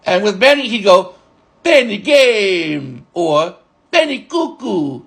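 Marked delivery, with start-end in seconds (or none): 1.6-3.1 imitated Turkish accent, drawn out. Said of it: "in his accent". 3.9-5.0 imitated Turkish accent, drawn out. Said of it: "in his accent".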